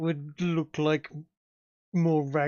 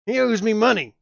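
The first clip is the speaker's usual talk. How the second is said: dopey cartoon bellow; 5 semitones higher, 6 dB louder than usual. GM voicing Gargarex.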